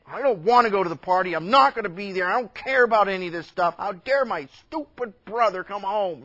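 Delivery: mildly acted tantrum, quick and loud at first; a touch of indignant cursing; angry older brother. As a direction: refuse in a huff. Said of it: "he was angry, and he would not go in".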